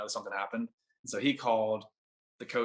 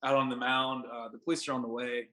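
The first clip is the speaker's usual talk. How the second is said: lightly voiced official guard, a bit louder; stern security guard; 3 semitones higher, 4 dB louder than usual. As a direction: play the guard catching a trespasser. Security guard confronting him.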